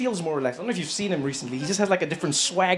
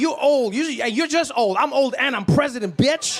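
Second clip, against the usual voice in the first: sassy comeback, pitched up; mock Biden retort; 6 semitones higher than usual. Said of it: "He's like".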